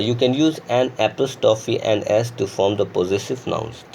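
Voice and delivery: very slow dictation of the rule; slow rule reading. Shown as a demonstration. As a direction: read the rule aloud word by word. Reads grammar rule slowly. (धीमी गति से नियम पढ़ना)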